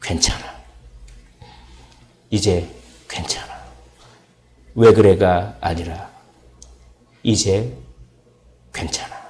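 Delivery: soft, whispered comfort; tender reassurance. Pretend. God speaking comfort to the believer, soft and tender. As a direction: hush the listener like God consoling them. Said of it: "이렇게 얘기하실 것입니다".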